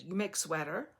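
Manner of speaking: lightly imitated Russian accent; a sweet Russian lady's accented question; hint of Russian accent. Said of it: "had a very thick accent".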